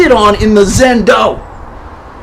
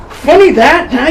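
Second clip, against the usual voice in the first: mocking taunt; 5 semitones higher than usual. Taunting the hostage master.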